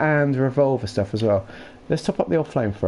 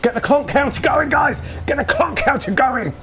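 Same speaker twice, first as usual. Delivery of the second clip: hyped call to chat; 11 semitones higher than usual. Real, not acted. Hyping chat to count clonks.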